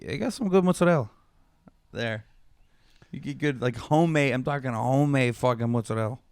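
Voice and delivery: mock Italian-American New Yorker; Italian accent. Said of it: "Stop it immediately".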